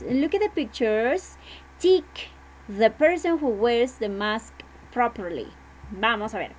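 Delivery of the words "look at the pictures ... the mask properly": reading instructions aloud. Shown as a demonstration. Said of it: "and it says". (maestra lee la instrucción a la clase, despacio)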